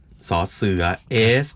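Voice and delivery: "สอเสือ เอส" slow, with a drawn-out hissing s; a teacher slowly showing the fricative in "สอเสือ"; fricative sound demo. Shown as a demonstration. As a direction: let the air hiss through on "สอเสือ" and "เอส". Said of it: "พวกเสียดแทรก ลมแทรกพวก".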